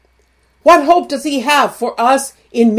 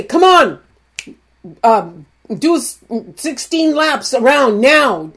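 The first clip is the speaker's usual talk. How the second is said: coach's push. Retold or imitated. Coach pushing the team to run, calling out. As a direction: bark it like a coach at practice. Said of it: "Just like your coach would say".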